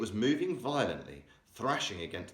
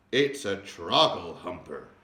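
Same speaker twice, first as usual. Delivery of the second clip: shouted; 7 dB louder, slower than usual. A narrator's reading. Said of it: "he shouted".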